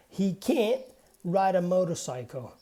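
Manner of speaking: stressed "can't", its T held back unreleased; barely pronounced T. Shown as a demonstration. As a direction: cut "can't" off before "ride" without releasing the T. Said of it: "almost like we say that T".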